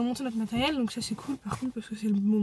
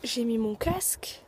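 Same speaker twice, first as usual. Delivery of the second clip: whispering; 5 dB quieter, slower than usual. Real, not acted. Sitting in the car.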